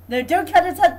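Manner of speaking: loud, urgent yell at the game; shouting. Real, not acted. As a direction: shout the warning. Yelling at the game.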